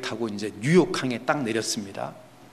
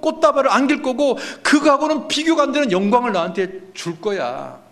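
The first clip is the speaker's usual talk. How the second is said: voicing God, building to a high, loud climax; impassioned promise; 9 semitones higher, 4 dB louder than usual. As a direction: pile up each promise higher, easing at the end.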